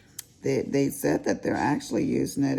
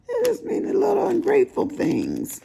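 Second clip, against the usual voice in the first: laughing through words; 5 dB louder than usual. Real, not acted. Laughing at her own joke.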